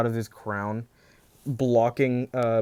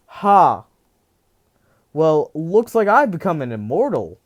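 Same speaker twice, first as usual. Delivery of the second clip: louder, higher exultant proclamation; triumphant gloat; 4 semitones higher, 9 dB louder than usual. Retold or imitated. Deku learns he's Cerberus, loud triumphant gloating. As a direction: crow it like a newly immortal villain. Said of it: "he says".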